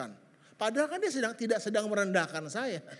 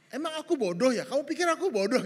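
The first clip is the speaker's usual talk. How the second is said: offended retort; 3 semitones higher, 4 dB louder, faster than usual. Retold or imitated. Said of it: "satu kalimat yang dia ngomong adalah".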